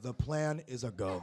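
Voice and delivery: low, slow, hushed conspirator; covert signal. Acted. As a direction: drop it low and soft like a secret go-ahead. Signal mistaken for a plot.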